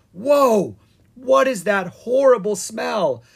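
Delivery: high, loud, shocked wizard voice; disgusted wizard. Acted. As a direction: recoil from the smell. Wizard reacts to stink.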